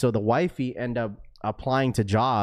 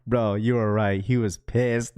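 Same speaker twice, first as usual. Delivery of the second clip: a hint of a hushed, lower airport voice; imitating his voice; 3 semitones lower than usual. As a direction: mimic the friend whispering into the phone. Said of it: "the sound of his voice, just saying".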